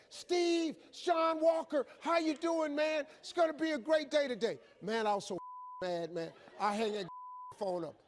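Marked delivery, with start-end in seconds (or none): 0.1-4.6 high, unchanging cheery greeting; loud, chirpy morning cheer; relentlessly upbeat caller. Acted. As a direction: imitate the same pushy wake-up pep call. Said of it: "He didn't change a damn thing".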